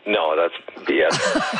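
slow, low deadpan admission; deadpan joke. Real, not acted. Caller joking about the weather, low slow deadpan.

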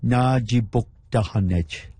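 Najibuktahanech said slowly, syllable by syllable. Shown as a demonstration. Repeating a tough word for the interviewer, slowly. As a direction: draw out Najibuktahanech so each part is clear. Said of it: "say it one more time a little slower".

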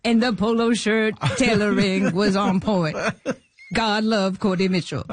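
lightly put-on comedian voice; Adam Sandler impression. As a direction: imitate the comedian quizzing her admiringly. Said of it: "It's the real Adam Sandler voice?".

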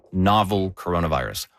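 "novel" given clear weight at the start; stress on novel. Shown as a demonstration. Host explaining the outbreak, stressing "novel". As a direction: lean on the word "novel" before "coronavirus". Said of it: "I'm gonna emphasize that word".

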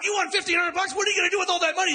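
high, fast, amazed gushing; excited crowd. Retold or imitated. Bar crowd at two in the morning, excitedly gushing. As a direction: gush over the win.

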